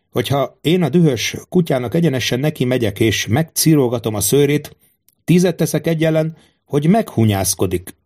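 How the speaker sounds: lightly voiced king, lively and self-assured; a hint of a monarch confiding in his guard; confident king. King reassures and instructs Quentin. (magabiztos király enyhén színezett hangja)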